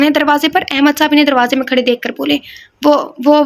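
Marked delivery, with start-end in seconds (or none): 2.8-3.4 stammering. Acted. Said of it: "وہ ہکلائیں".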